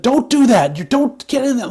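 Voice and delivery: high-pitched mock scolding; retold yelling. Co-host retells Shuri yelling at a wrestler, mock scolding. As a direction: scold like an imitated mild yell. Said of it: "and yelling at her".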